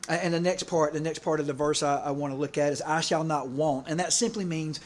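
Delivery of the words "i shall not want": slow, deliberate reading of "I shall not want"; slow scripture quote. Shown as a demonstration. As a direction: weigh each word of "I shall not want" slowly. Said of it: "It just sounds really good in King James".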